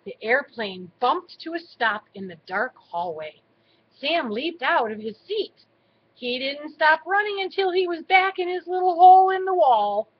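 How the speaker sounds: animated bedtime-story reading; story narration to children. A narrator's reading. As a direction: read the adventure aloud for small children. Reads a story to grandchildren.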